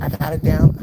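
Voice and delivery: loud, high mock snap from the busy waitress; flustered waitress. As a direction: call it out loud and high like a harried cook. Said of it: "And she's like".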